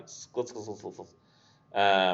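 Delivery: quiet, fading "skla" clicks. Shown as a demonstration. Teacher repeats the scuttling sound quietly. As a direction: murmur "skla" softly, like claws far off. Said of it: "that's what it is. The sound of scuttling".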